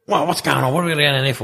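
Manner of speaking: high, whiny questioning; imitating puzzled roommate. Roommate told of team meeting, querulous. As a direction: question it in a high, put-upon voice.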